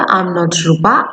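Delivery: slow, careful model sentence; slow demo. Shown as a demonstration. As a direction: lay it out slowly for the class. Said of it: "তাহলে তোমাকে কি বলতে হবে?".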